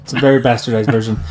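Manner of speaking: talking out of the side of the mouth; out of mouth corner. Real, not acted. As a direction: speak from one corner of the mouth. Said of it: "Just gotta talk out of the side of my mouth now".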